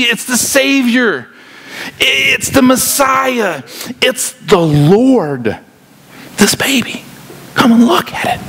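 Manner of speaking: high, drawn-out, overwhelmed announcement; awestruck excited angel. Acted. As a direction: stretch each title as if barely getting it out. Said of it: "the angel can barely get it out".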